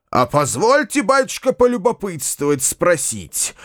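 high, needling mock-politeness; testy landowner. A narrator's reading. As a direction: poke at him with fake courtesy. Irritated old landowner questioning.

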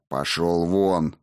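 slow, low and menacing; through the teeth. Acted. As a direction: hiss it out slowly. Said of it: "процедил царевич".

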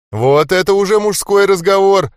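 loud, pleased approval; a gloating, happy boast; gleeful. A narrator's reading. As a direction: crow with delight at the deal. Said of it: "обрадовался ублюдок".

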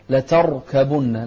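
slow لتركبن with a full, heavy ر; drawn, distinct "la-tar-kabunna"; careful ر. Shown as a demonstration. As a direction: separate ر from ك in لتركبن. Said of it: "لا، لتركبن".

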